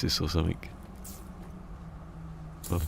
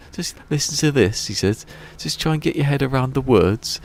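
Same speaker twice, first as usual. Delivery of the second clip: high, louder hyped insistence; excited insistence; 9 semitones higher, 5 dB louder than usual. Retold or imitated. Greg Davies urging his listeners on, loudly excited. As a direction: sell it like the best story ever.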